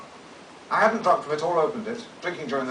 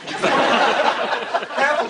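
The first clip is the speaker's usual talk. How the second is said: irritated warning; 10 semitones higher, 6 dB louder, much slower than usual. Retold or imitated. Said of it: "she said, suddenly irritated".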